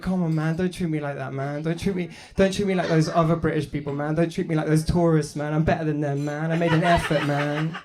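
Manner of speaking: lightly indignant pleading, pitched a little up; mock upset. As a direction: protest to the waiter like you've been wronged. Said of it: "I get upset".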